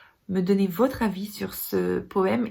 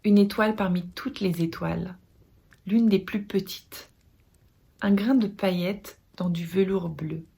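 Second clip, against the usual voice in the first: measured poetry reading with long pauses between lines; poem recitation. Acted. Reciting Hikmet's poem on living to followers, measured poetic delivery. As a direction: recite it solemnly, phrase by phrase, letting each line settle.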